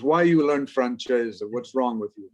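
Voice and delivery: a hint of a reproachful grandfather, slowing on the question; grandfather's scolding. Grandfather to grandchild who learned French, lightly acted scolding. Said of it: "he says".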